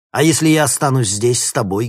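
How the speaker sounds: high, loud angry challenge; angry question. A narrator's reading. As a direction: demand it in anger. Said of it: "гневно спросил Никита".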